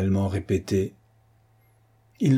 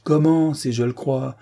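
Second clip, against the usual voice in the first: indignant surprise; 4 semitones higher than usual. Acted. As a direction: fire it back as if offended. Captain indignant at question.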